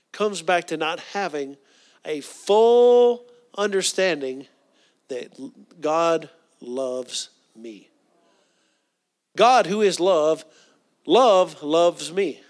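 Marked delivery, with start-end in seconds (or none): 2.0-12.4 slow, louder words on God's love; emphatic preaching. Acted. Preacher driving home God's love, slowly and loudly. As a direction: lean hard into every word. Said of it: "preacher's emphatic close".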